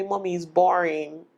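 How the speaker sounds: light imitation of a bored child; a hint of a bored little girl; child's complaint. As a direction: whine a little like a bored kid. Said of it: "my daughter will tell me".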